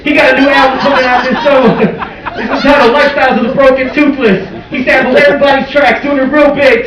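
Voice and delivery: high, pumped-up radio host voice; radio DJ hype. Pretend. Comedian playing a radio host announcing an artist.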